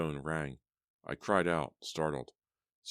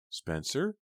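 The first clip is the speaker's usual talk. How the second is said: calling out; 10 semitones higher than usual. A narrator's reading. Calling after him.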